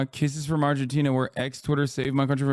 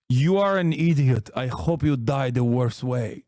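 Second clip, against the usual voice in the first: retold insult. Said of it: "he started off the conversation with".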